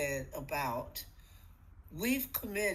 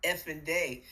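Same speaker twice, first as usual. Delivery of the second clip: grumpy morning; 4 semitones lower than usual. Pretend. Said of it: "You don't wake up and go".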